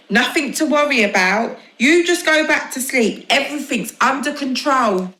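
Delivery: put-on high little boy voice, earnest; small boy. Little boy tells mum not to worry. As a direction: reassure mum like a tiny helper.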